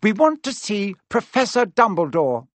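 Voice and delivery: mildly bold request; rather bravely. A narrator's reading. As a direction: stand up to the teacher. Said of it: "rather bravely".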